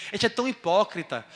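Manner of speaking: ordinary talk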